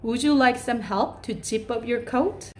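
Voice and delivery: very slow, careful model question; slow polite offer. Shown as a demonstration. Teacher offering to zip a child's coat, very slow. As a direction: offer help with each word placed. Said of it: "한번 해볼게요".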